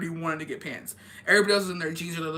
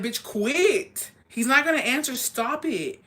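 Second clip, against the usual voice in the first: higher, louder annoyed plea; exasperated; 6 semitones higher, 4 dB louder, slower than usual. Retold or imitated. Urging the office lady to stop calling, exasperated. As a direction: snap at her to stop.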